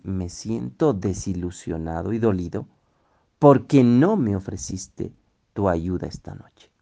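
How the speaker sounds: calm, gentle, honest telling of hurt; frank and kind. Shown as a demonstration. Teacher shows telling a spouse of hurt, gently and frankly. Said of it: "Dicho de una manera franca, bondadosa".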